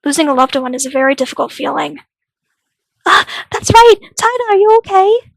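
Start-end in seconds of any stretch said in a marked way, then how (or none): 3.1-5.3 high, startled worried voice; sudden concern. Acted. Checking whether grieving Tada is okay, alarmed concern. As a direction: remember suddenly and check on a friend.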